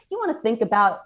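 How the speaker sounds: talking through a mouthful of cereal; mouth full. Real, not acted. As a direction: talk around a bite of food. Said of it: "I can't talk with my mouth full".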